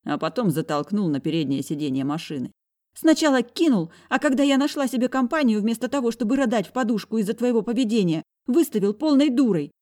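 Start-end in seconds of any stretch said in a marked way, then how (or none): 2.9-9.7 put-on high, hurt, accusing girl's voice; high-voiced sister scolding her brother; angry young woman. A narrator's reading. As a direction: throw the blame at him.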